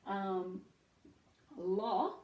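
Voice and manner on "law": "law" with a short o; short vowel sound. Shown as a demonstration. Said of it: "So short sound o".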